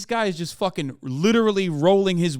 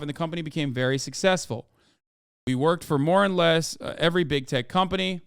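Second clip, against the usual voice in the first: put-on light Icelandic accent reading a letter. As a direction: read it with a hint of an Icelandic lilt. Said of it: "it's hard to keep doing the accent".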